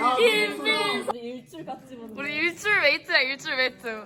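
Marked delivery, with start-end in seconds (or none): 0.1-2.2 drawn-out calling of a name. Real, not acted. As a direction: stretch the name out long, calling. Calling friend's name across room. (길게 늘여 이름 부르기)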